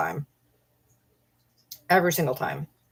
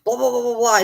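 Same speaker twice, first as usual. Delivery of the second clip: higher-pitched mock gushing; imitated gushing fan; 4 semitones higher than usual. Trolls won over in ten minutes, mock-gushing. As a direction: imitate eager trolls fishing for secrets. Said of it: "they're like".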